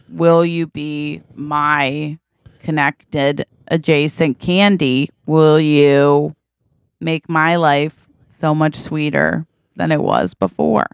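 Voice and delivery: slow, halting plea with long pauses; measured, hammed-up sweetheart proposal; earnest romantic proposal. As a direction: draw out a corny declaration of love. Acting out a corny love proposal.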